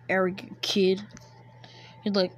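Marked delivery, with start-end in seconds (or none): 0.1-1.0 sneered in a whisper; contemptuous whisper. Acted. Sasuke muttering an insult at Naruto, whispered. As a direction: spit it out under your breath, no voice.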